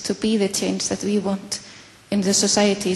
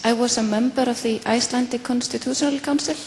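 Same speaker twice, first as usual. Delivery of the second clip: a little louder, to be heard; speaking up. Real, not acted. Audience member repeating the introduction for a listener who can't hear, speaking up. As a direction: repeat it with slightly more volume. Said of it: "speak a bit louder".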